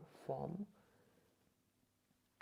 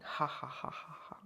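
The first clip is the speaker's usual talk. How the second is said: imitated laugh. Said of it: "she started laughing".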